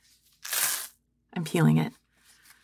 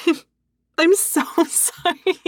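laughing apology; 8 semitones higher than usual. Acted.

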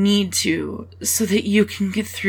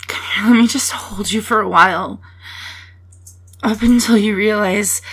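whispering; faster than usual. Real, not acted. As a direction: whisper it like a hug. Offering a hug.

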